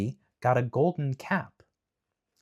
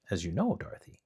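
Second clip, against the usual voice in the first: whisper; 2 semitones lower, 7 dB quieter, faster than usual. Real, not acted. Whispered narration aside.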